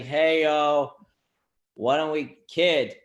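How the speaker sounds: Jesus as a loud Boston bro; Boston accent. Pretend. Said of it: "What if Jesus had a Boston accent?".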